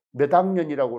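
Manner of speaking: 몇 학년이라고 with a voiced d, med-angnyeon, Jeolla way; 몇 학년이라고, Jeolla pronunciation. Shown as a demonstration. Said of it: "이렇게 말하고".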